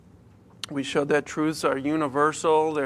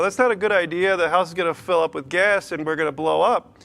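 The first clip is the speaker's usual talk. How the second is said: firm dad warning. Retold or imitated. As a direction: tell the kid no, firmly. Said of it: "And I'm like".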